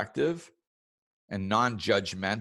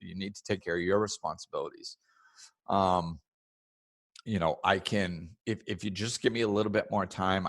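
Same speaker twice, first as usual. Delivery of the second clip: loving; 3 semitones lower than usual. Shown as a demonstration. Caller calmly asks a lender for more time. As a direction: gently ask for patience. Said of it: "coming from a place of love".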